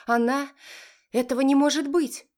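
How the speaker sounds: mother screaming at the news; shouting. A narrator's reading. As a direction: yell it in disbelief. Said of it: "закричала женщина".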